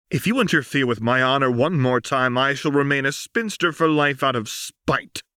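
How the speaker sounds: put-on proud young soldier facing her mother; Lux, defiant daughter. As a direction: stand tall and refuse her mother.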